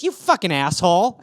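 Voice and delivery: indignant acted accusation; imitated indignation. Girl's angry reaction acted out.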